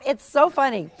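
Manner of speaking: plain reading voice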